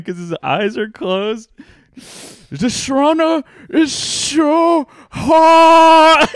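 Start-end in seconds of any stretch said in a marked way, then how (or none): 2.5-6.3 put-on very high, loud, slow accented wail; Asian accent. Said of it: "strong Asian accent".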